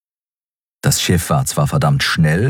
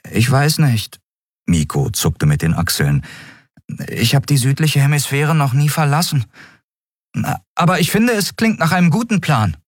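viel höhere, unsichere Figurenstimme; zögernder Miko; 9 semitones higher than usual. Acted. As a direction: erst zweifeln, dann zustimmen. (hoch und zögerlich)

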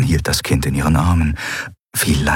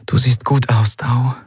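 partly whispered, higher voice; whispering; 5 semitones higher than usual. A narrator's reading. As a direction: whisper it to a brother. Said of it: "flüsterte sie". (leise geflüstert)

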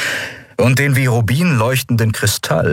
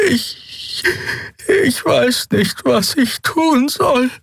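frightened; much slower than usual. A narrator's reading. Xea paralysed with fear.

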